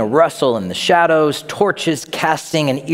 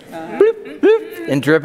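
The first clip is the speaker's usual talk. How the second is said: dripping sound; slower than usual. Retold or imitated. Dad dripping water on sleeper.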